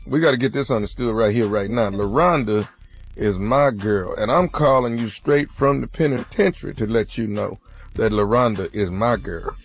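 tough inmate voice. Acted. Nephew holds inmate caller voice.

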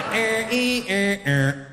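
droning sci-fi tones; imitated alien noises. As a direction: make mock spaceship signal sounds. Imitates alien noises after joke.

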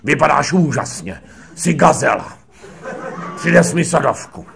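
Krejčík sweet-talking. Retold or imitated. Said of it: "on řekl".

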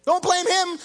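loud, high preaching rise; preaching at full force. Acted. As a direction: build the fire against the greedy. Preacher rising against billionaires.

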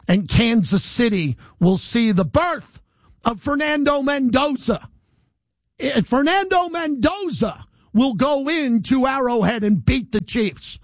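slow, emphatic prophecy; grand proclamation. Real, not acted. Host promising Raider Nation a win in Kansas City, slow grand proclamation. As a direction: stretch the name out like a proclamation.

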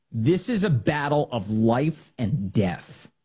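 slow, weighty parody of the quote; slow mock reading. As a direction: read it slowly, dragging each word.

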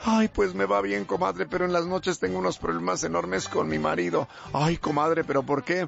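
put-on voices of two women friends; hammed-up comadre chat; gossiping comadres. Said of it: "dos amigas".

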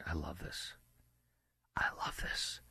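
hushed, low aside sinking to a whisper; gleeful aside. Real, not acted. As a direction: drop to a near-whisper, savoring it. Gleeful aside before listing countries.

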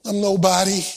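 low, small mimicry of self-pity; self-belittling mock voice. Preacher mimics someone who thinks too low of themselves, self-belittling.

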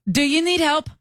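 lightly imitated halting helper; imitating non-English speakers. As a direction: mimic reading out a translated phrase. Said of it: "they must have Google translated".

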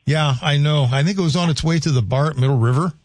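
put-on quick joking Scandinavian-Minnesotan accent; playful Upper Midwest Scandinavian accent; mock Scandinavian accent. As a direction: keep the Norwegian bit going, fast. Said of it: "real Swedes and Norwegians are shaking their head".

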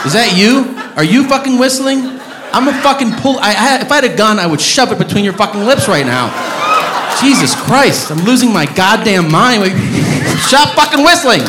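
furious, high-pitched rant building to a shout; aggressive outburst. Real, not acted. Comic to a whistling audience member, aggressive high-pitched tirade. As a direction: lose it at someone, voice climbing high. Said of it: "that was a little aggressive".

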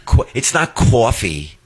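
"coffee" slow with a New York vowel, kʰɔfi. Retold or imitated. Kids mock dad's New York "coffee". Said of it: "my kids because they say".

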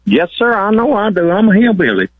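jumps way up in pitch, playful and bashful; amused surprise. Real, not acted. Truck driver owns up to his accent, pitch jumping high in surprise. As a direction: caught off guard, answers with a grin in the voice.

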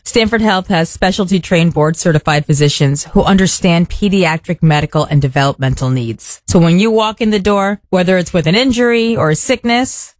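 measured host-read endorsement; sincere radio sponsor message, phrases falling at the end. Acted. Host recommending children's emergency room to parents, ad read.

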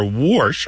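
"warsh" said as worsh; R insertion. Shown as a demonstration. Host naming the mapped dialect feature, "warsh" said as worsh. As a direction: put an R before the sh in "warsh". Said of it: "or this R insertion".

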